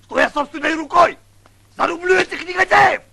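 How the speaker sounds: vengeful oath. Acted. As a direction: vow rising to fury.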